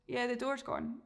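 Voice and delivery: soft shrugging "Yeah, the door's gone"; unbothered, let it drop; bored dog. Pretend. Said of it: "your dog kind of just goes".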